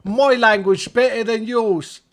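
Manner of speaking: a hint of a smug Englishman; mock English boast. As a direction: lord it over them, drawn out. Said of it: "They always go like".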